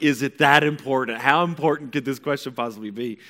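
reenacted teen exasperation; exasperated. Son in the shower questions mom's urgency, exasperated.

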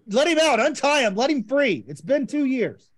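hammed-up rallying cry; mock plea. Real, not acted. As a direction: jokingly insist the dog be freed. Joking demand to free dog.

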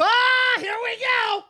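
high, mocking whine; high mock groan. Friend mocking the nerds' argument in a high whine. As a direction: pitch up and mock it like an old complaint.

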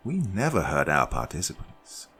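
lightly voiced, sugary calm host; a hint of a smug hostess calming a captive; Judy's voice. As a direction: soothe them falsely, in control. Narrator voices Judy.

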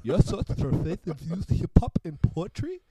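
high, slow, loud hammed-up southern drawl; laughing through a put-on southern host voice; hammed-up southern accent. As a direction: stretch every word out in a mock southern radio voice. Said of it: "I got this southern accent".

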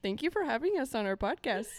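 Irish attempt that drifts towards Indian; botched Irish accent. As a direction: try Irish and slip into an Indian lilt. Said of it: "Okay, little Miss India".

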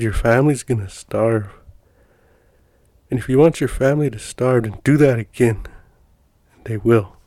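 retold scolding, mildly stern; lightly acted telling-off; stern tongue-lashing. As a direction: give a measured, stern warning. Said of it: "giving him tongue lashing".

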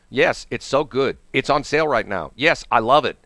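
mock testimonial in a repetitive sing-song list; phony scripted endorsement. Host mocks man saying what company wants, stilted recital. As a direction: recite each yes like a fed company line. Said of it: "they gave him a script, and it sucked".

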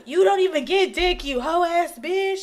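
retold furious street insult; angry yelling. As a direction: spit the insult at her. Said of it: "I know he was yelling".

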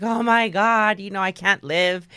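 mildly hammed-up despair; dramatic. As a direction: retell it like a drama queen. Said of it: "I'm so dramatic".

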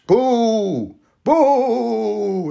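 high, far-off mock ghost "Boo!"; hammed-up spooky ghost; a deliberately lame ghost impression; weak ghost boo. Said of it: "that was a weak-ass ghost".

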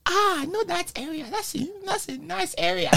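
put-on high Nigerian accent praising the area. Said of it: "a little Nigerian dialect accent".

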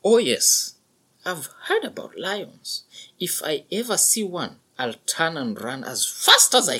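put-on high, eager young calf; young buffalo voice. A narrator's reading. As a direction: pitch it up as a nervous young calf. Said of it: "said the young buffalo".

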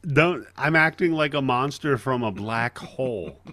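put-on laughing while quoting the kid; a laughing kid impression; quoting kid actor. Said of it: "That's his line".

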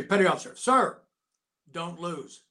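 quick gruff sergeant command; gunny's pep talk. Retold or imitated. Gunny ordering his boxer before a match, mock gruff.

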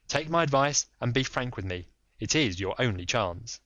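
lightly voiced firm detective; Holmes. Holmes pressing the lady, lightly voiced firm.

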